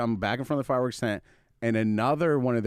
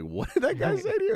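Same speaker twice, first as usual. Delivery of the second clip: mock coworker. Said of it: "was like".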